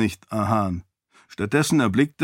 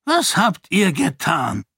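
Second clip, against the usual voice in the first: alarmed question; 6 semitones higher than usual. A narrator's reading. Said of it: "rief Roial".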